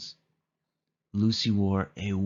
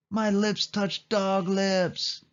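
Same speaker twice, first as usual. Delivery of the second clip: high, slow wail of disgust; girl kissed by a dog; disgusted howl; 9 semitones higher, much slower than usual. A narrator's reading. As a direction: howl it out, revolted. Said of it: "she howled".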